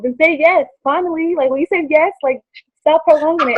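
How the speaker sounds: imitating an eager, insistent suitor; retold impatient urging. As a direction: press for an answer, mock impatient. Acting fiancé pressing for an answer.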